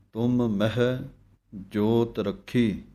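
ਤੁਮ and ਮਹਿ kept apart with two distinct m sounds; don't run ਤੁਮ ਮਹਿ together; separated words. Shown as a demonstration. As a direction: correct split reading. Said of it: "ਤੁਮ ਦਾ ਮਮਾ ਅਤੇ ਮਹਿ".

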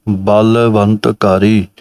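slow ਬਲਵੰਤ with a slight break, bal-vant; hint a tiny pause inside ਬਲਵੰਤ; small gap in ਬਲਵੰਤ. Shown as a demonstration. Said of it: "ਥੋੜ੍ਹਾ ਜਿਹਾ gap ਦੇ ਕੇ ਬੋਲਣਾ ਹੈ". (ਬਲਵੰਤ ਵਿੱਚ ਥੋੜ੍ਹਾ ਜਿਹਾ ਵਿਰਾਮ)

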